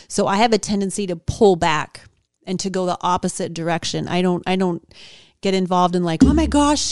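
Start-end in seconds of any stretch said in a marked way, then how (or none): 6.2-6.9 high, loud mock panic. Mocking the panicked people around her, high and loud. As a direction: squeal it like a panicking friend.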